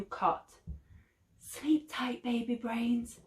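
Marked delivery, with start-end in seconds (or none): 1.4-3.2 put-on hushed, softer goodnight to the baby; soft whisper. A narrator's reading. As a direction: murmur it gently over the cot. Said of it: "she whispered".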